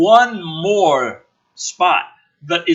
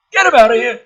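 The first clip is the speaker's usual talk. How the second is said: a general barking, louder; mock general's order; 6 semitones higher, 8 dB louder, faster than usual. General ordering his men to move the prisoner, shouting. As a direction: snap the order at the room. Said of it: "The general licks his lips, says".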